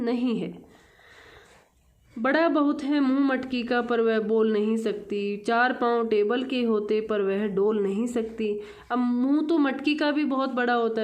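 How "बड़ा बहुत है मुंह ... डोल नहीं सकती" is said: measured classroom verse reading; poem recitation. Acted. Teacher reads the Hindi poem to children, poem recitation. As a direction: read the verse out clearly, line by line.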